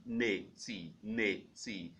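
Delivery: nati, said softly as an alternative; second pronunciation option. Shown as a demonstration. Teacher modelling the alternative pronunciation nati. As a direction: model the variant nati, slowly. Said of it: "That's the second option for pronouncing that word".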